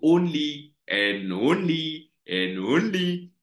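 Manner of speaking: each "only" stretched out slowly; slow right down and lean on every "only"; emphatic repeated ONLY. Real, not acted. Teacher stresses English only.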